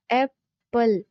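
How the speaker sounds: "एप्पल" in two separated beats; syllable by syllable. Shown as a demonstration. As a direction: break "एप्पल" after its first syllable, pause, then the second. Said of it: "दो इसमें vowel sounds हैं". ("एप्पल" को दो हिस्सों में तोड़कर)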